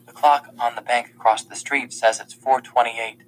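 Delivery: ordinary delivery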